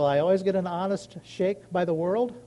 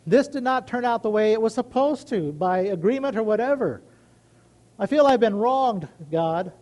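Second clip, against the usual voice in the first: raised, earnest plea to God; prayer to God; 4 dB louder than usual. Retold or imitated. Retelling his prayer, an earnest plea to God. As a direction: pour the complaint out to God, then settle. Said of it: "I go to my God and I say".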